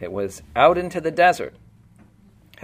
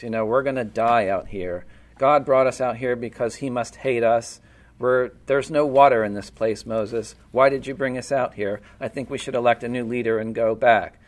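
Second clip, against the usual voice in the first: grumbling Israelites. Retold or imitated. Voicing grumbling Israelites to Moses.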